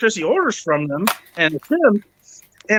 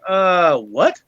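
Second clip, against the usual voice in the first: baffled disbelief. Retold or imitated. Retelling his disbelief at betrayal.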